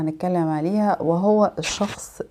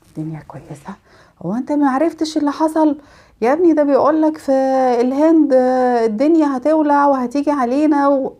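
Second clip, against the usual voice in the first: gloomy doom-monger; 5 semitones higher than usual. Retold or imitated. Gloomy person retorts about the news.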